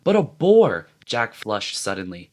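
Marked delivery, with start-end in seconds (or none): 0.0-0.9 higher and louder in disbelief; voice runs up. A narrator's reading. Ralph protesting to Jack, higher and louder. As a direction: voice jumps up. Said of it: "Ralph's voice ran up".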